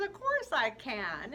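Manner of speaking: slow, loud, assured churchman voice; a lightly voiced priest promising help; priest's reply. Priest answers the girl, slow and grandly assured. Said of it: "He goes".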